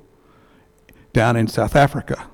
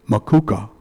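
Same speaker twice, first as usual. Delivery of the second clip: imitated heavy British accent. Husband tells his surname to a new acquaintance, imitated British accent. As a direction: say it like a Briton, imitating. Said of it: "with a heavy British accent".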